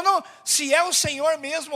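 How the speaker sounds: retold challenge. Peter's words, first quick take.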